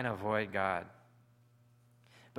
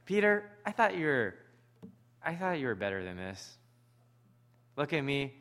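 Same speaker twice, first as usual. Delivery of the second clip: disappointed scolding. Retold or imitated. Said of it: "Or is it gonna be like".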